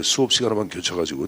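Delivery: ordinary talk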